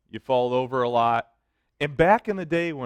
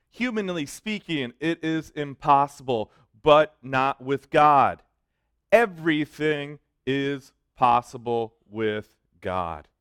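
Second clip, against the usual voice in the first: slow solemn quote; slower than usual. Acted. Quoting Jesus' fundamental truth.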